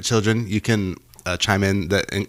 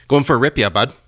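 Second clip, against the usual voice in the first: Canadian buddy voice; 4 semitones higher, 4 dB louder than usual. Retold or imitated. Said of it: "That's a good Canadian one".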